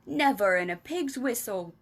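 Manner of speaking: mild mock outburst from the giant; BFG crying out. The BFG refusing Sophie, mildly exclaiming. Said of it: "cried the B F G".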